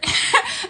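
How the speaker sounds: sudden high loud laugh; loud burst of laughter. Real, not acted. Laughing hard at a friend's reply about hair. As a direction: crack up at the friend's joke.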